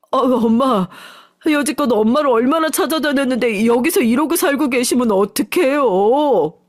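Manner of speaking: a son choked up on finding his mother; tearful son. Acted. Son to his lost mother, pleading through tears.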